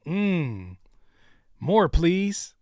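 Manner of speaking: mocking a fan begging for seconds; mock craving. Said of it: "look at this with a straight face and say".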